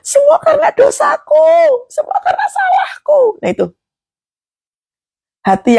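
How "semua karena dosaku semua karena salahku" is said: high, strained crying shout; a broken wail for help, voice cracking; crying out to God. Acted. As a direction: plead with God through tears. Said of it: "Pengennya cuma".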